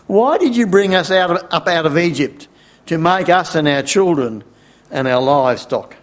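mildly aggrieved grumble, starting high; grumbling complaint. Acted. Thirsty people blaming Moses for leaving Egypt, mild grumbling complaint. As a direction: complain with a touch of reproach, easing off. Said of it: "they grumbled against Moses".

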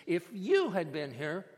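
mild anger with weight on YOU; understated bitter accusation; angry reproach. Acted. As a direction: reproach him, leaning on YOU. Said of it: "can you hear the anger in her words".

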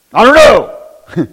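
put-on slow, loud childish whine; lightly voiced whining boy; son's sulky reply. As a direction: drag it out like a pouty kid.

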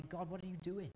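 crying out to God in confusion, pitch rising; bewildered believer's lament, rising toward a cry; pleading questions to God. Retold or imitated. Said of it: "we can come to God and we can say".

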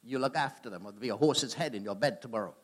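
a touch of the Godfather; lightly voiced mob don laying down the law; Godfather impression. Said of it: "a bit like the Godfather".

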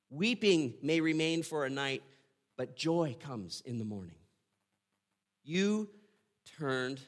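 solemn scripture reading with soaring cries; psalm reading. Acted. Pastor reading Psalm thirty to congregation, solemn and fervent. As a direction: lift the psalm to the Lord in praise.

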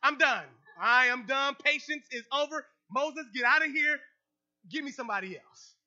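mock exasperated God, loud; fed-up God. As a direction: play God losing patience. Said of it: "if I was God, this is where I would be like".

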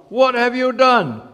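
high, loud, drawn-out outrage; teacher yelling. A narrator's reading. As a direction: yell it slowly as a scandalised teacher. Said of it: "The teacher yelled".

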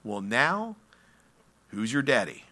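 ordinary delivery

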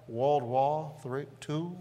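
demonstrated Georgia drawl, words drawn out; deep Southern drawl. Shown as a demonstration. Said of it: "They draw out their words and add R sounds".

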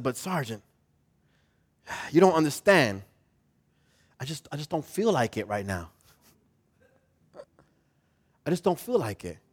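deflated, very quiet whine; mopey excuse. Retold or imitated. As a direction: sulk like you just can't be bothered. Soldier reluctant, downcast.

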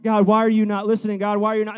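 a fast, loud, hurt question flung at God; desperate cry to God. Retold or imitated. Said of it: "I'm praying to you".

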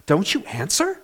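acted anguished plea, rising and loud; David. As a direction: protest to God, building then dropping on the final question. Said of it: "the David of Psalm twenty-two".

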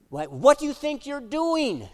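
high, loud scolding teacher; a retired teacher yelling at a bear on her deck, scolding loud and high; stern teacher voice. Retold or imitated. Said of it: "She used her teacher voice".

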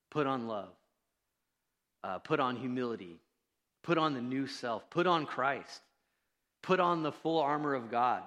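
preacher driving the point home; building emphasis. Acted. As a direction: build the list to a loud peak.

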